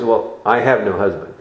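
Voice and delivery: quick, mildly curt answer; curt reply. Retold or imitated. Woman answering Jesus about her husband, mildly curt. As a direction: brush it off briefly. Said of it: "she rather curtly replies".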